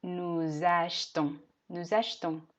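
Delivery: achetons as "ash-ton", e dropped; silent e. Shown as a demonstration. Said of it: "simplemente no la pronuncio".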